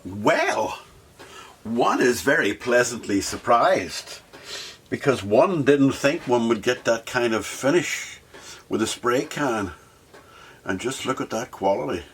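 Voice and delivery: mock-grand English gent impressed by his paint; posh gentleman. Builder admiring spray finish as a hint of a posh gent.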